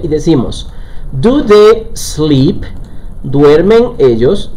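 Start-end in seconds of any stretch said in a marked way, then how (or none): 1.1-2.6 high, very slow English question; careful rising dictation; slow model sentence. Shown as a demonstration. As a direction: stretch each word for the learners. Teacher models question slowly.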